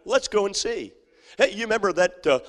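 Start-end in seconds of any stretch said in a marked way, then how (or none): 0.0-0.9 eager invitation. Pretend. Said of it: "here's what they say".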